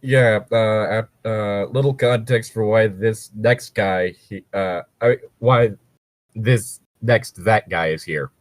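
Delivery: hiccuping while talking; hiccups. Real, not acted. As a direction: talk through the hiccups. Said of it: "with all them hiccups".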